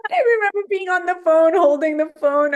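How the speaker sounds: fast, giggly recollection; laughing. Real, not acted. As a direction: laugh through the memory.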